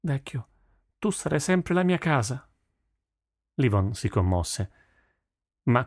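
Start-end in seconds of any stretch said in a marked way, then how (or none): 0.0-2.5 put-on high-pitched, tender girl's voice; tender daughter. A narrator's reading. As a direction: reassure your old father with affection. Daughter comforts father, embracing him. (figlia affettuosa)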